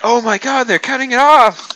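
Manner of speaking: high, loud hammed-up alarm; mock horrified realization. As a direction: cry it out, imitating someone who has only now caught on. Acting out character's late horrified realization.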